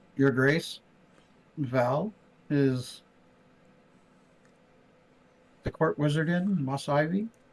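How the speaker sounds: pointed aside said for all to hear. In character, the player speaks to the queen's son under the breath, still audible. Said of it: "I will say under my breath".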